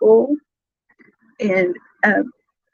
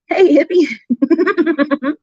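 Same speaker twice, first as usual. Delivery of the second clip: drawn-out greeting; 5 semitones higher, much slower than usual. Real, not acted. Streamer teasingly greeting a chat viewer, slow. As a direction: stretch "Hey, hippie" very slowly, higher.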